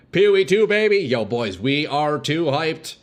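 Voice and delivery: high, mic-peaking shout of excitement; loud hype. Real, not acted. Streamer hyping the game announcement to his viewers, loud and excited. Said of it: "may have peaked there if that was loud".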